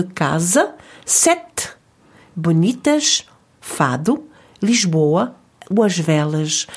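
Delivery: each word stressed on its next-to-last syllable, as in CA-sa; stress on second-last syllable. Shown as a demonstration. Teacher lists example Portuguese words, stress on the second-last syllable. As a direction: lean on FA in "fado", BO in "Lisboa". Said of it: "L'accentuation se fera alors sur l'avant-dernière syllabe".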